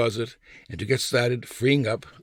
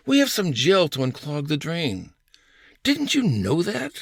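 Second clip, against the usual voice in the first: mock know-it-all wife, pitched higher; wife's bossy advice; 5 semitones higher than usual. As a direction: lightly play the wife, slowing on the last question. Wife lecturing about the drain.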